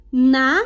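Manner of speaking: "Natureza" syllable by syllable, RE stressed; separado em sílabas. Shown as a demonstration. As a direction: break "Natureza" into NA-TU-RE-ZA, leaning on RE. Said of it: "vamos falar juntos a palavrinha". ("Natureza" sílaba por sílaba, com força no RE)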